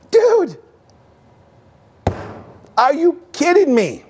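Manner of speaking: incredulous outburst. Retold or imitated. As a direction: cry out in shocked disbelief at the husband. Retelling his reaction to the husband.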